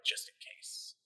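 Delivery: measured adventure narration; story narration. A narrator's reading. Narrator setting up a werewolf hunt, measured storytelling. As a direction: read it out like a tale unfolding.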